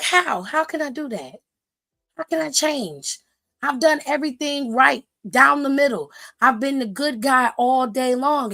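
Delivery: mildly pleading, lightly voiced wrestler; imitating John Cena. John Cena asking The Rock for help, mild pleading. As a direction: ask desperately how to change. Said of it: "And John Cena's like".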